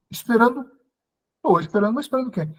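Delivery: high, puzzled questions; baffled surprise. Retold or imitated. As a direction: echo her word in disbelief. Confused by strangers' claim. (surpresa confusa, voz bem mais aguda)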